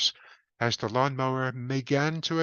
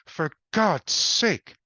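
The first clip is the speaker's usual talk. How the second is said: louder, slow and drawn out; exasperated outburst; 6 semitones higher, 4 dB louder, slower than usual. A narrator's reading. Harold exasperated at the sergeant, louder and slowed. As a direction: plead in pure frustration.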